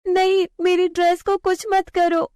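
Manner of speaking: put-on high, pleading child voice; anxious refusal. Girl refusing to hand over her dress, high and pleading. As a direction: hold on to the dress.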